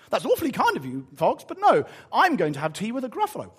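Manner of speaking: a hint of a chirpy small character; lightly voiced little mouse. Mouse politely declining the fox's tea, lightly acted.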